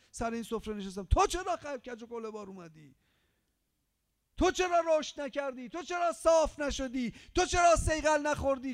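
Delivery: loud, high, accusing reproach; Imam reproaching. Pretend. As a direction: confront the sinner with each "why". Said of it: "بگه". (امام با سرزنش بلند)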